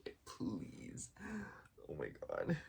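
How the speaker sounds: burp through the words. Real, not acted. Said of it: "Excuse me".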